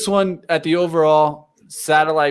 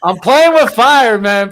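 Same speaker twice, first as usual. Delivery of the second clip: loud, high hype bro boast; crypto bro; 6 semitones higher, 7 dB louder than usual. Acted. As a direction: shout it like a proud gambler. Bragging about a risky stock.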